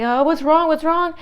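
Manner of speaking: high-pitched re-enacted worry; mock freak-out. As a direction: act out a flustered assistant checking on a patient. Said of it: "I was freaking out".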